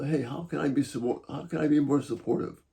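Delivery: soft, gentle offer of help; quietly offering support instead of blame; supportive. Shown as a demonstration. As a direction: ease off and sound supportive. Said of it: "maybe it's the simple".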